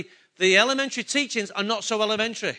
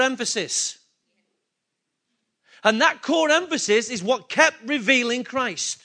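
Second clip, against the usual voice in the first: raised, driving pulpit delivery; louder, building sermon fervour; fervent preaching; 4 semitones higher, 5 dB louder than usual. Acted. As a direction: preach it out to the congregation. Preaching at full force.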